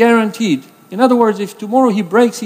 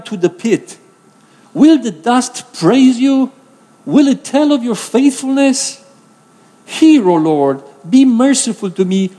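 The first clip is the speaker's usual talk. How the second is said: pleading prayer; slower than usual. Acted. David prays, pleading psalm quote.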